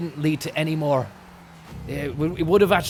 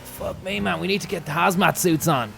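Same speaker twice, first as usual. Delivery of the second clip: imitating Eddie Jordan; 3 semitones higher, 4 dB louder than usual. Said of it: "Eddie Jordan was like".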